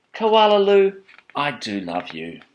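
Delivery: name called high and loud, then dropping; fond mother. Acted. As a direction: sing out the name, then slow down fondly. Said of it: "her mother would smile and say".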